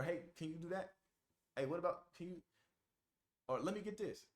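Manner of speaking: light, offhand request; casual asking tone. Shown as a demonstration. Someone asking you to do that, casual asking tone. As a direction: toss out small favours casually. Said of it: "That's the tone I'm using".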